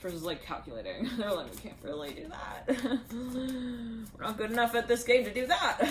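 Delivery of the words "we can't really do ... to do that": laughing while quoting. Retold or imitated. Retold voices, laughing through.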